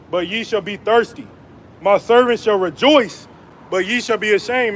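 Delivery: measured preaching cadence, weighty and deliberate; scripture reading. Acted. Preacher reading Isaiah to his viewers, solemn proclaiming. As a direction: proclaim the verses like a street preacher.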